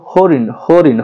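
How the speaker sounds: "হরিণ" with a long "হো"; lengthened first syllable. Shown as a demonstration. Teacher showing how we pronounce the word, lengthened first syllable. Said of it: "আমরা দীর্ঘ করে উচ্চারণ করি".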